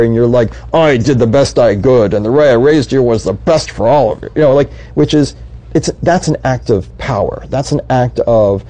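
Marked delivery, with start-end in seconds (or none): 0.7-4.3 all-powerful King Lear. Retold or imitated. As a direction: play a proud king justifying himself to his children. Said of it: "like the all-powerful King Lear".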